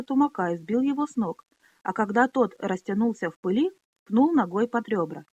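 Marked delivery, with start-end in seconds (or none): none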